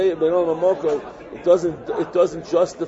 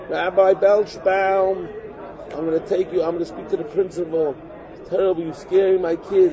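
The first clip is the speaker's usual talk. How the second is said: upset mother. Retold or imitated. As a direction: mimic the mother complaining to the rabbi on the phone. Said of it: "the mother calls up".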